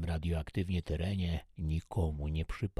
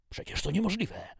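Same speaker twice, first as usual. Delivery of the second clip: high, louder, incredulous; disbelieving exclamation; 6 dB louder, faster than usual. Acted. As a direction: protest the impossible news. Major disbelieves pregnancy news. (okrzyk niedowierzania)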